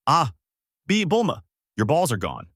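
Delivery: sharp high cry on Bulma, then panicky; startled yell. A narrator's reading. Goku yells at Bulma in a fright, high startled cry. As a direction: yelp it out in alarm. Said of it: "He yelled out".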